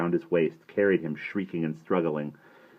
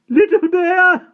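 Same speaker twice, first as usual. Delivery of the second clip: high squeak through giggles; 15 dB louder, slower than usual. A narrator's reading. Giggling boy answering the headmaster, high squeak. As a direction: squeak it out, helpless with laughter. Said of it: "Patrick squeaked out".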